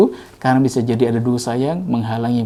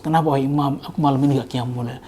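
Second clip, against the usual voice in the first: sorrowful; 5 dB quieter than usual. Retold or imitated. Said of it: "Sedihnya luar biasa".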